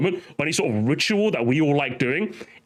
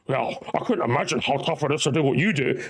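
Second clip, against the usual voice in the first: smug leaker; 2 semitones lower than usual. Retold or imitated. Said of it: "comes in there and goes".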